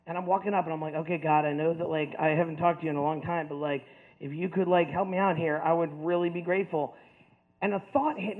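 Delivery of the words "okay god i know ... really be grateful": low, understated plea to God; pleading prayer. Retold or imitated. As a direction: pray privately, asking a favor. Retold prayer walking up aisle.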